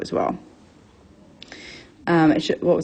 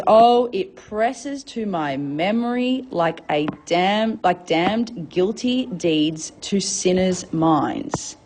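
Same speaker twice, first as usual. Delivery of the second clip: slow, measured Shakespeare recitation; dramatic verse reading; much slower than usual. Acted. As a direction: read the verse out slowly, weighing each word. Reads Juliet's lines to the class.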